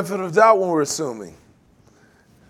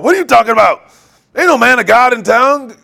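exasperated king; 4 semitones higher, 6 dB louder than usual. Retold or imitated. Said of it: "He's going".

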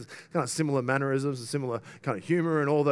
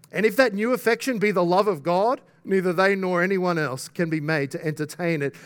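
raised, emphatic preaching voice; forceful quotation reading; 3 semitones higher, 4 dB louder than usual. Real, not acted. Preacher quoting an article on love of God, emphatic. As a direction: read it out with pulpit force.

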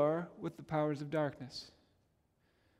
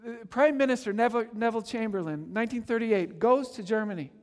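ordinary delivery

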